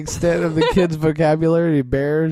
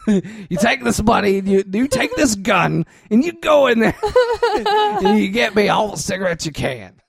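bossy bear with a laugh; gruff bear voice; 4 semitones higher than usual. Pretend. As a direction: order the kid around. Bear voiced ordering the kid.

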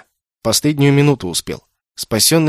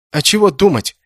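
put-on high, puzzled child voice; puzzled boy; 7 semitones higher, 4 dB louder than usual. A narrator's reading. Boy wonders why Kenneth is worried, puzzled and high. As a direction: ask it like a baffled kid. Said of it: "недоуменно спросил мальчишка".

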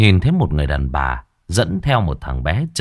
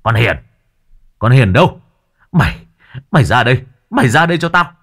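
loud angry father bellowing for his daughter; furious father calling his daughter out; growled shout; 4 semitones higher, 4 dB louder, faster than usual. Acted. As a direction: bark her name like a threat. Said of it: "miệng chú quát gằn".

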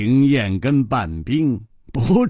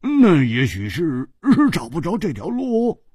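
dazed; 2 semitones higher than usual. Acted. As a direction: say it as if lost, groping for an excuse. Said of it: "他痴痴地说". (痴痴地说)

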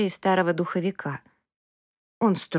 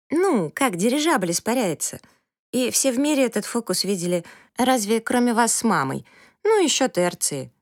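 lightly voiced teenage daughter; 6 semitones higher than usual. A narrator's reading. Girl Septima voiced by narrator.

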